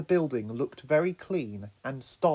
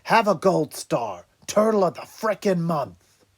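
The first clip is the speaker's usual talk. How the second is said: sarcastic; 4 semitones higher, 7 dB louder than usual. Acted. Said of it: "began Raph sarcastically".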